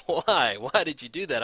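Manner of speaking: imitating a viewer's mild mock yell; a touch of a frustrated shout at the player; mock screaming viewer. Viewer yelling at the player, a mild mock yell. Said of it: "sure you're sitting there screaming at me like".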